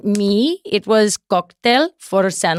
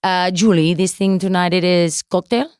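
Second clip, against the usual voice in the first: Sofia Vergara; 2 semitones lower than usual. Retold or imitated. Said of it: "What's your impression of Sofia Vergara?".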